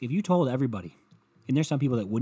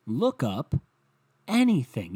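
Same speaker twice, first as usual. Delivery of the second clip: exasperated; 2 semitones higher, 5 dB louder, slower than usual. Acted. Repeats line louder, higher.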